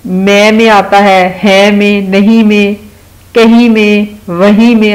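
final "ں" in میں, ہے, نہیں, کہیں, وہیں voiced through the nose, no full n; nasal noon ghunna. Shown as a demonstration. Teacher showing kids the nasal noon ghunna sound. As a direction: let the word endings ring through the nose, no full n. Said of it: "ناک میں سے اس کی آواز نکالتے ہیں".

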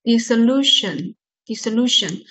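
"Dissolution" said slowly, main stress on "lu"; syllable stress demo. Shown as a demonstration. Teacher shows students where the main stress falls, slow stress demo. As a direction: model "Dissolution" syllable by syllable, leaning on "lu". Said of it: "这里有个首重音，lution".

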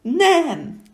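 huge high bellowed no; roar. Acted. The No creature roaring to scare the child. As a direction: roar it with everything. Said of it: "elüvöltötte magát".

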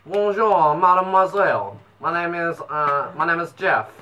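shaky attempt at a French accent; badly faked French accent. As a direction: try French and miss. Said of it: "I can't do a French accent".

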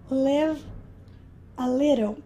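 Live said /lɪv/, short vowel, not like "laive". Shown as a demonstration. Teacher modelling Live for students, careful short i. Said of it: "aí nós pronunciamos live".

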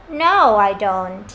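"no, I don't" sinking low on "don't"; voice dropping. Shown as a demonstration. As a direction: let the pitch sag after "no". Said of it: "cái giọng trùng xuống một xíu".

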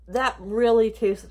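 talking with a mouthful of candy; words round a hard candy; mouth full. Real, not acted. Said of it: "terrible talking with my mouth full".

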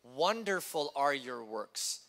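slowed right down, savouring "Wonderful"; slow reverent repeat; slow, savoured. Shown as a demonstration. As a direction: linger on each word of "Wonderful are your works". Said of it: "I'll say that again".

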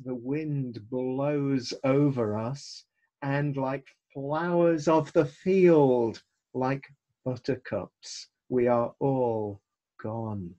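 solemn scripture reading. Acted. Psalm quoted with dramatic slow emphasis.

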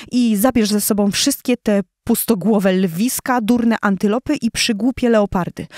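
shouting lioness. Acted. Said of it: "Wykrzyczawszy to wszystko".

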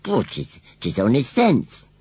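slow, high sulky country voice; sulky scarecrow. Acted. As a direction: sulk like a stubborn old scarecrow. Gummidge voice.

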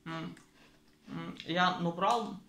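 chewing while talking; muffled words around food; mouth full. Real, not acted. Seen 2: Ate cracker at -1; closed-mouth chewing frames 0.2–3.0.

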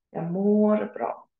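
"Jag mår bra" said slowly and evenly; slow model answer. Shown as a demonstration. Teacher modelling a Swedish reply slowly for learners. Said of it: "for example, in mår".

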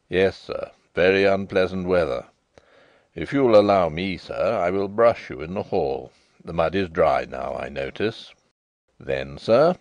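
a hint of a proper butler reciting; respectful butler. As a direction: report each detail like a careful valet.

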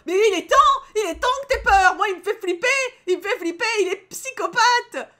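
high, loud alarmed rant; freaked-out outburst. Real, not acted. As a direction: yell a frantic warning, hammed-up. Alarmed reaction to scary character. (cri d'alarme aigu et affolé)

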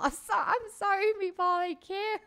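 high, loud giggly apology; laughing too hard to talk. Real, not acted.

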